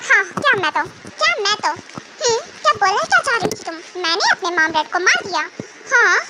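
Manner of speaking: acted indignant challenge, key words punched. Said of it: "voice नीचे रखो".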